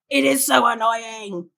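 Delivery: lightly voiced, insistent little devil; a hint of petulant complaint; devil on shoulder. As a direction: grumble it like a nagging inner voice. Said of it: "the devil being like".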